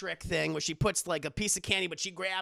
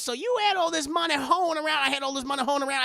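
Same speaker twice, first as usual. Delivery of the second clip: higher, louder, then fast; a hammed-up nosy friend; mock Aunt Bam; 5 semitones higher, 3 dB louder, faster than usual. Aunt Bam asking Madea about her money, in a higher voice.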